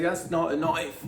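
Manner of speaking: mock Australian accent, slow and loud; a light Australian accent. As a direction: drawl it like a Crocodile Dundee Aussie. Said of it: "broke out into an Australian accent".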